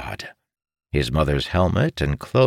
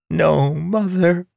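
high, slow grief-stricken plea; grieving young son; 14 semitones higher, 3 dB louder, slower than usual. Acted. Son realizing his mother is dead, slow grieving. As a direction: let it break with disbelief.

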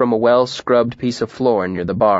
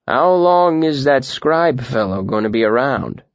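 into a cup. Acted. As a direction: voice echoing in a mug. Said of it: "voice echoing in his mug".

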